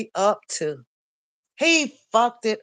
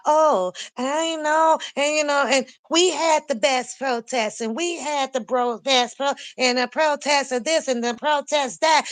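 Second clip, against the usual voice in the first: mocking bragging; 3 semitones higher than usual. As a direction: ham up a preacher bragging about his protests. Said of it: "he goes into his braggalicious theatric moment".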